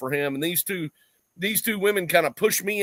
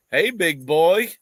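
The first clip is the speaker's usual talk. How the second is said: flirty come-on; 5 dB louder, slower than usual. Retold or imitated. Women flirting, voiced in story.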